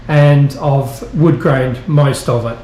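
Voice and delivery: talking while bumping along; on a bumpy road. Real, not acted. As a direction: voice jolted by walking bumps. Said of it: "sorry about the bumps".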